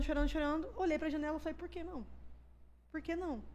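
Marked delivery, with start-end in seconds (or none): 1.5-3.4 soft, hushed self-questioning; quiet dark thought. Retold or imitated. Woman at the window questioning herself, quiet despair. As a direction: ask yourself under your voice, pausing between.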